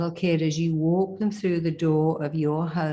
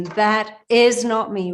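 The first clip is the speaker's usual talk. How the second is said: slow, louder deliberate declaration; powerful affirmation; 4 semitones higher, 6 dB louder, slower than usual. Shown as a demonstration. Coach modeling the final scene's affirmation, slow and louder. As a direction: say it slowly with force. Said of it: "Do it with power and conviction".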